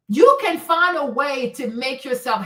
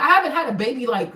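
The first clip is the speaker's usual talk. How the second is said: normal talking voice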